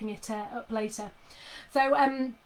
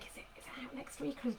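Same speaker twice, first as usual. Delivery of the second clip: unvoiced, under the breath; whispered aside; 2 semitones higher, 13 dB quieter, faster than usual. Real, not acted. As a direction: wonder it half to yourself. Unsure aside about release date.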